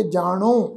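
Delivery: ਜਾਣੋ with a nasalised final vowel; ਜਾਣੋ ending nasal; nasal pronunciation. Shown as a demonstration. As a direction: say ਜਾਣੋ with the last vowel through the nose. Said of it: "ਬਿੰਦੀ ਸਹਿਤ ਨਾਸਕੀ ਪਾਠ ਉਚਾਰਨ ਕਰਾਂਗੇ".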